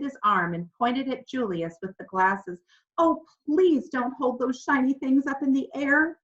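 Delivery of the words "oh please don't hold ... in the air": higher, anxious begging; pleading. A narrator's reading. Boy silently pleading with the pastor, higher and anxious. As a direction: beg under your breath for it not to happen. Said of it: "Mitch pleaded silently".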